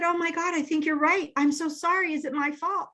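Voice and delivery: high, distressed imitation; retold tearful husband. Husband apologises to bawling wife, imitated as high and upset. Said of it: "He started crying".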